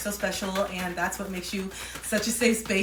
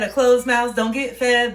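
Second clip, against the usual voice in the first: British accent; 4 semitones higher, 9 dB louder, slower than usual. Real, not acted. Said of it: "why I was having the accent".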